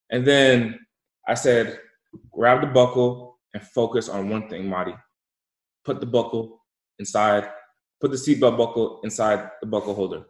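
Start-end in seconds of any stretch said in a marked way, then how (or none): 2.3-10.3 even, measured, unmoved command; deadpan instruction. Retold or imitated. Adult coaches a crying child through buckling, deadpan and steady. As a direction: give orders straight-faced, with pauses between steps. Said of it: "I just look at him straight dead face".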